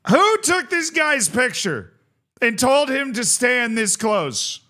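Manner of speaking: high, slow incredulous jibe; mock outrage. Real, not acted. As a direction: sound appalled at the photo. Mocking a player photo.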